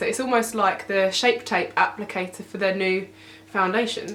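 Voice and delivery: out of breath. Real, not acted. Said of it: "I'm so out of breath".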